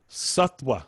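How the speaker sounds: "sattva" pronounced SUT-wa. Shown as a demonstration. Teacher says think of it as a W, w sound. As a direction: put a plain w in "sattva". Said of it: "just think of it as a W".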